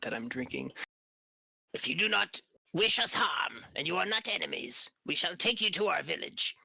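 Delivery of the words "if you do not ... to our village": high put-on creature voice, wary; newt warrior voice. Newt guard explaining to travelers, high wary voice. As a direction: speak like a cautious tribal guard.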